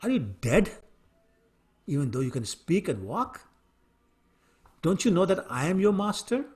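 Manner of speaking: a raging master's outburst that fades into threats; angry king. Acted. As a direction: scold the servant who shakes the palanquin. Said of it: "the king became even more angry and said".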